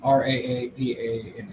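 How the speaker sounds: spelling with a mouthful of pizza; mouth full. Real, not acted. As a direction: talk around a bite of food. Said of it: "I'm still eating pizza here".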